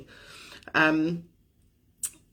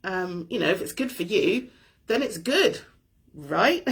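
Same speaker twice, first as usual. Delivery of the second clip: questioning challenge; 2 semitones higher than usual. Retold or imitated. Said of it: "And the question was".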